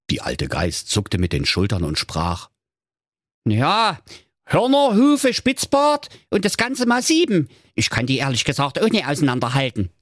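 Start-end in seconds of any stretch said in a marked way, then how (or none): 3.5-9.9 put-on high, thin old nanny goat; a grateful old goat's voice; frail breathless old person. Old goat describes kids.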